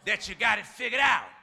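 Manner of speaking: preaching shout. Real, not acted. Preaching climax.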